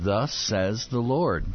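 slow, weighty prophet's declaration; solemn proclamation. Acted. Moses to Pharaoh, slow solemn proclamation. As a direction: pronounce it like a royal decree, slowly.

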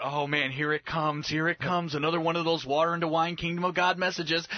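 a touch of giddy expectation; eager disciples. Acted. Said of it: "and they're going".

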